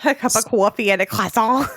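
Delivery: "croissant" with a French nasal ending and dropped T; affected French croissant. Retold or imitated. Echoing co-host's silly bakery order, affected French pronunciation. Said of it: "how stupid you sound when you go into a bakery".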